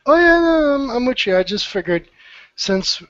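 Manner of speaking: joking around in a strange voice; weird voice. Pretend. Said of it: "even though I'm talking in a weird voice".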